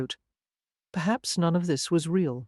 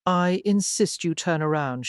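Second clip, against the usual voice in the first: cold tone. Acted. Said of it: "her tone cold".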